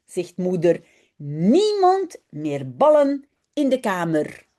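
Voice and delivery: put-on lively read-aloud for children; story reading. A narrator's reading. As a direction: read the story brightly with voices. Reads Dutch children's story aloud. (lecture d'une histoire pour enfants)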